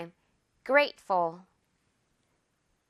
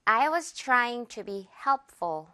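very slow, light ful; slow demo; much slower than usual. Shown as a demonstration. Teacher modeling for repetition slowly. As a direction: draw it out evenly. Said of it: "문장 듣고 따라해 주세요".

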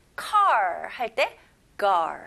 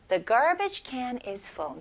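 slow repeat; much slower than usual. Shown as a demonstration. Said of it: "F 발음 명확히".

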